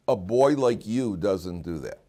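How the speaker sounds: slow, calm reminder of who he is; calm firm praise. Shown as a demonstration. Father to son caught misbehaving, calm and slow. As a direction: say it slowly, calm and sure. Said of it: "you say to a kid".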